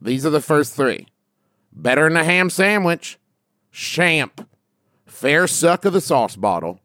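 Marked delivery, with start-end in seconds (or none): 1.7-6.8 lightly put-on Appalachian accent. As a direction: read it with a hint of Appalachian drawl. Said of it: "read them all in an Appalachian accent".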